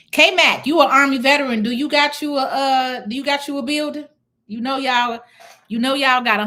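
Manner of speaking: high, loud hail to a viewer; excited call-out. Real, not acted. Streamer hyping up a veteran viewer, K-Mac, excited. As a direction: call out to him, fired up.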